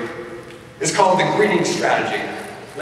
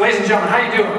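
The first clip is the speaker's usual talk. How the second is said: hype call; 6 semitones higher, 4 dB louder, much faster than usual. Real, not acted. Hyping up the audience.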